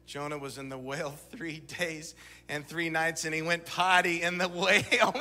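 put-on retelling the boy's joke while cracking up; laughing as he quotes his little son; laughing through it. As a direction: giggle through the punchline. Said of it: "he couldn't help himself".

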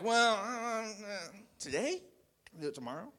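a lazy wind putting off the job; reluctant wind. Retold or imitated. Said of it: "the wind doesn't be like".

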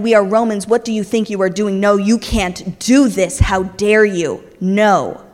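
loud furious protest; mock furious crowd shouting; angry mob yelling. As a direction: shout down the prisoners. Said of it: "they were yelling".

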